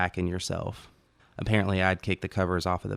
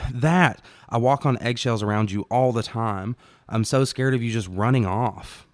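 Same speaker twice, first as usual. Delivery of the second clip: louder and higher, hurt and frustrated; a partner's raised-voice outburst in a quarrel; upset outburst; 4 semitones higher, 4 dB louder than usual. Acted. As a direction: blurt it out, scared of losing her.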